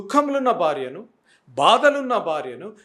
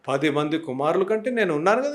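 reassuring husband; 3 semitones lower than usual. Acted. Husband to weeping wife, the right way, gently reassuring. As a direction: comfort her like a caring husband. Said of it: "పాజిటివ్గా నేనున్నా అంటే".

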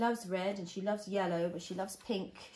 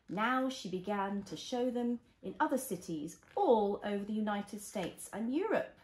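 gentle storybook reading; reading to a toddler. Acted. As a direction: read it like a bedtime story.

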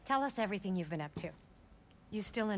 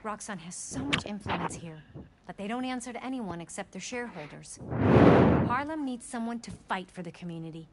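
campaign speech voice; 7 dB louder than usual. Acted. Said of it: "That's Mom's campaign speech voice".

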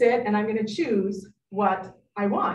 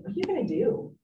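curious question; 8 semitones higher, 4 dB quieter, faster than usual. Shown as a demonstration. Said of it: "curiosity is the best first tool".

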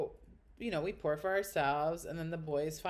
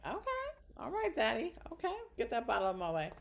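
high, sarcastic fawning over the big spender; mock impressed; 6 semitones higher than usual. Mocking a show-off ordering champagne, with sarcastic high praise. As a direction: tease him like he's a baller daddy. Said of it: "I'm like".

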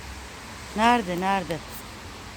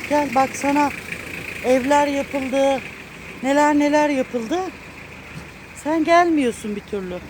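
louder, fond scolding of a pet that ran away; half-scolding, half-relieved, raised voice; loud reproach; 2 semitones higher, 3 dB louder than usual. Real, not acted. Owner scolding Keko for going missing so long, loud fond reproach.

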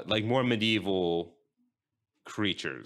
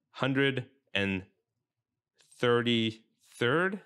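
slow intro broken by long pauses; deliberately slow, halting show opener; very slow stalling. Real, not acted. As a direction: stretch it out, pausing between phrases to buy time. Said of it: "I'm talking very slowly".

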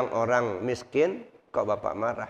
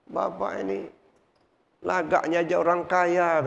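imitating an angry stranger; 5 semitones higher than usual. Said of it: "entah dia marah-marah sama kita".

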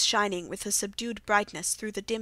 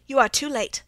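louder, higher alarmed outburst; urgent cry; 4 semitones higher, 7 dB louder than usual. Acted. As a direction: blurt out the bad news, alarmed. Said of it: "I cried".

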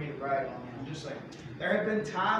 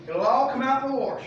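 "wash" said as "warsh", louder saying; a hint of granny; 6 semitones higher, 5 dB louder than usual. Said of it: "She always used to say".

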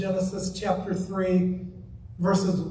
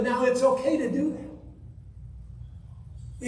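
slow, sarcastic drawl of a lax church; mock the easygoing church, slowly; sneering slow "now it's okay"; 6 dB quieter, much slower than usual. Mocking church that changes God's word.

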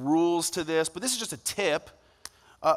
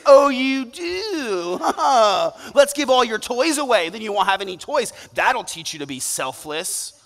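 high, mocking cruel-dad voice; a cruel father mocking his child; mock sadistic father; 6 semitones higher, 5 dB louder than usual. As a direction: sneer it like a twisted parent. What sadistic, crazy person would do that.

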